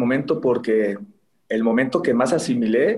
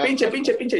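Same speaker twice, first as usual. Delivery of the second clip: 1 retold shouting; 10 semitones higher, slower than usual. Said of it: "me gritaban".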